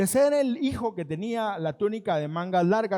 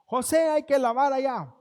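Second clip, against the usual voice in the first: orden del amo; 4 semitones higher, 5 dB louder than usual. Acted. Amo dando órdenes a José.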